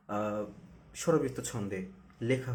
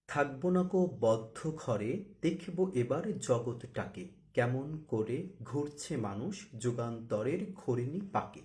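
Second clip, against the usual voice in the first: poem recitation; slower than usual. Shown as a demonstration. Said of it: "এবার একটু উদাহরণ দেখি".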